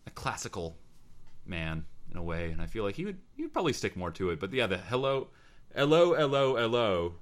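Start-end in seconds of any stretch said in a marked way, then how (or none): 4.8-7.1 lightly imitated Cockney greeting, raised and loud; hint of Cockney on each hello, stepping down; mock Cockney triple hello. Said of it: "you can only really do it in a Cockney accent".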